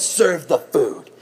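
low, slow, held-in command; controlling himself. Retold or imitated. Joseph fresh from crying orders dinner, controlling himself. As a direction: draw it out with exaggerated composure. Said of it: "controlling himself, he said".

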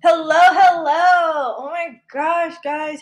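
high, bright hello to listeners; excited greeting. Real, not acted. Podcast intro greeting.

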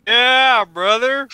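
very high, loud bro cheer; excited yell. Real, not acted. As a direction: scream it like your team scored. Hyped agreement about favorite girl.

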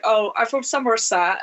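imitating a West Country Somerset accent; mock Somerset local accent. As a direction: put on a Bristol and Somerset burr. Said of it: "So they speak like that".

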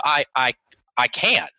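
halting start, then a settled statement; plainer, firmer self-belief; growing conviction. Acted. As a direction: land on it as a realization. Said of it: "You hear the difference?".

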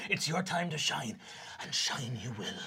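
soft solemn father; hushed tender. Acted. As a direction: drop to a tender hush. Papa turns hushed and tender.

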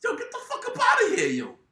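furious high yell; angry. Retold or imitated. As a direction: blow up at the kid. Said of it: "And I lost my shit".

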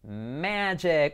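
"magic" as MEH-jek; short e and hard j in "magic"; pronunciación correcta. Shown as a demonstration. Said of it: "And that's magic". ("magic" dicho «médchek»)

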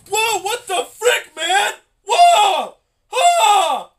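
high-pitched panicked yelling; mock horrified shouting, way over the top; overacted freak-out. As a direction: freak out at the top of your voice, hammed up. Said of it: "freaking out like that. That is some overacting".

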